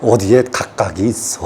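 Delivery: low, soft evasive reply; a mock wise teacher dodging the question; hesitant guru answer. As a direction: stall with a low hum. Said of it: "이렇게 말한다고".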